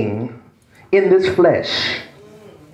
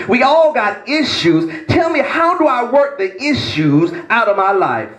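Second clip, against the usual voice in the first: mock congregant plea; 3 semitones higher than usual.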